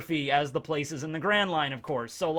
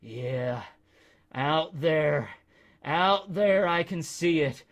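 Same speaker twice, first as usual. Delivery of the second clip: dreamy hallucinating. Retold or imitated. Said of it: "started to hallucinate".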